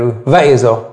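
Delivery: و اذا front-stressed with a falling end; wrong word stress. Shown as a demonstration. Teacher repeating the mistaken reading, و اذا stressed early and falling. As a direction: punch the start of و اذا, drop the ending. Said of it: "و اذا اشتباهه".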